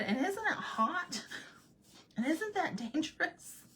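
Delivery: high-pitched fretful question; squeaky-high mock worry; retold worried objection. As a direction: voice doubts in a high, mock-anxious tone. Retold objections to vacation idea.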